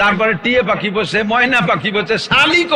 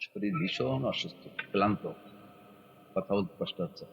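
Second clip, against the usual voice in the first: feigned weakness; 13 semitones lower, 18 dB quieter than usual. Retold or imitated. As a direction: sigh it out like a man too tired to talk. Imitating a sulking sick president. (অসুস্থ ক্লান্ত মানুষের মতো খুব নিচু দুর্বল গলা)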